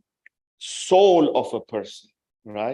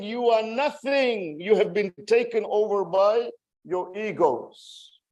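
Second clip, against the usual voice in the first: blunt rebuke; 7 semitones higher than usual. Retold or imitated. Preacher voicing Zainab's rebuke to the people, blunt and high. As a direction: retell a scathing public rebuke. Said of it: "She doesn't mince her words".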